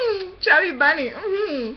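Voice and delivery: barely intelligible, mouth crammed; muffled through a packed mouth; cheeks stuffed full. Real, not acted. Many marshmallows in mouth.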